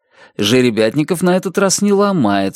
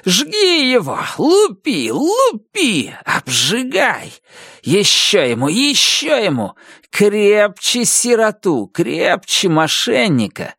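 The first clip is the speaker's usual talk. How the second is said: high, gloating shouted orders; officer yelling at soldiers to beat harder; gleeful shouting; 7 semitones higher, slower than usual. A narrator's reading. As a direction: egg the soldiers on with glee. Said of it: "кричит во всё своё горло".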